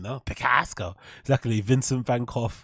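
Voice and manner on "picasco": Picasso in a mock Boston accent. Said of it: "it kinda sounds like a Bostonian".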